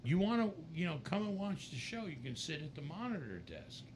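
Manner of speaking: high, lightly voiced offer fading toward the end; imitating Wendy. Wendy inviting John to the monitor desk, lightly high. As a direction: lift the pitch and make it friendly. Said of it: "she, she goes".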